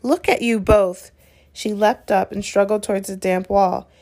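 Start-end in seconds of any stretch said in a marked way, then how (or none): 0.0-1.1 shrieking. Acted. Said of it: "shrieked Hermione".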